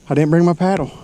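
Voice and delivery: realizing the mistake, exasperated; frustrated. Real, not acted. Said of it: "I am so freaking frustrated right now".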